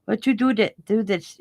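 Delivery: lightly put-on Chinese-accented English; hint of imitated Chinese accent. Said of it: "that's how he kinda talked".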